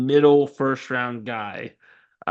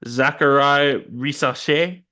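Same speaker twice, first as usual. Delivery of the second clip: attempted French accent. Shown as a demonstration. Podcaster attempting a French player's name, tentative French accent. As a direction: try your best French accent on the name. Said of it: "That was my best French accent impression".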